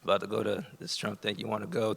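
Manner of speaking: soft, slow, testing-the-waters ask; slow talk. Retold or imitated. Calling his friend Lisa, asking softly and slowly. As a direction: ease into the question quietly. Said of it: "kinda like that slow talk".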